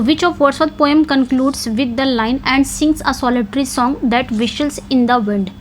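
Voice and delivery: reading the question out very slowly; slow, careful question read; slow dictation. Shown as a demonstration. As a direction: spell out every word for students to note down. Rereads question and quoted line.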